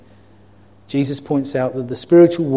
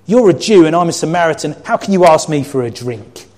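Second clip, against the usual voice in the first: loud, high, indignant; half-shouted shocked retort; shocked outburst; 4 semitones higher, 7 dB louder than usual. Shown as a demonstration. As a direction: fire it back in shock. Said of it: "I'm gonna reread it a different way".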